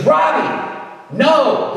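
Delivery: high, loud call across the room. Retold or imitated. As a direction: call out to stop him. Brian calling out across room.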